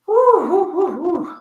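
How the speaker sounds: high, loud woo woo; rising party whoops; hype cheer. Real, not acted. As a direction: pump yourself up with a whooping call. Hyping herself up on camera.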